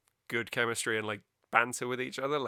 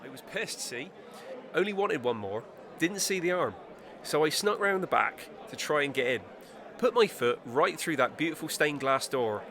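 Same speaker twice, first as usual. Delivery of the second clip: soft West Country; 4 semitones higher than usual. Acted. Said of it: "Mark, soft West Country".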